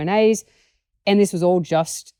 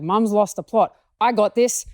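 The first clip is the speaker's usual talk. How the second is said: higher, take-charge dog voice; mock self-assured, pitched up; confident dog voice; 5 semitones higher than usual. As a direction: voice a dog stepping up. Voicing dog taking charge.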